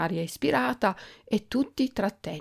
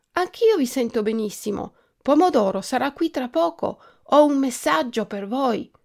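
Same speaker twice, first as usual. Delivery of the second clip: lightly voiced small, higher character; Fragoletta's little voice; 6 semitones higher, 5 dB louder than usual. A narrator's reading. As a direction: speak up in a small high voice. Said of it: "continuò la vocina".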